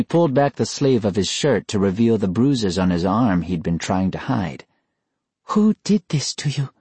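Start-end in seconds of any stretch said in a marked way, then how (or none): 5.5-6.7 put-on high girl's voice, demanding an answer; sharp, insistent sister. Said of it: "Kimiko demanded".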